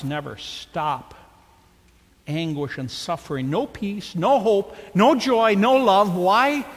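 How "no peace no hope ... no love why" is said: building cry. Acted. Preacher's climax on hell.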